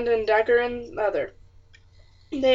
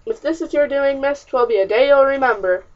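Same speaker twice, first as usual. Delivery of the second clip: angry threat; 4 semitones higher, 6 dB louder than usual. Acted. Father threatens his daughter.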